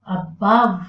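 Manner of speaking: a-BOVE, first syllable light; stress on the root. Shown as a demonstration. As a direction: punch the second syllable of above. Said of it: "the stress is on the root".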